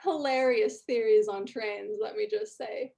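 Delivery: pompous dwarf jeering at a rival's family; mocking dwarf. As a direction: sneer at the mother's theories. Dwarf mocking Jules' mom.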